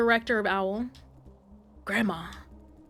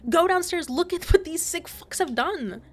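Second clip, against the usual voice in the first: furious demand; 9 semitones higher than usual. Real, not acted. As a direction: make them see what was done. Angry confronting the agent.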